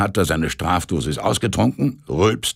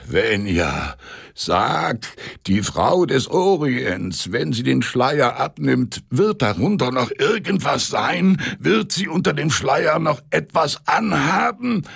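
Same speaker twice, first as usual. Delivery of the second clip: eager pleading; 8 semitones higher than usual. A narrator's reading. Drunk conductor asks eagerly.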